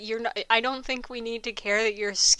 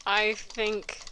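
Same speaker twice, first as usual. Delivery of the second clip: slow careful reading; 6 dB quieter, slower than usual. Shown as a demonstration. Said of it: "I'm an English speaker".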